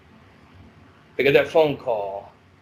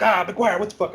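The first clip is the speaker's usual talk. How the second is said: inmate protest; 7 semitones higher than usual. Retold or imitated.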